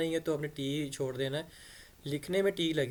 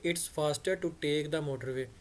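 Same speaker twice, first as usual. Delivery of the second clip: slow model sentence; much slower than usual. Shown as a demonstration. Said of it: "कहेंगे".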